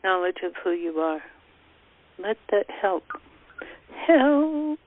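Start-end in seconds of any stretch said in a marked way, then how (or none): 4.1-4.8 primal cry. Shown as a demonstration. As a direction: release the cry from the gut. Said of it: "that loss come up".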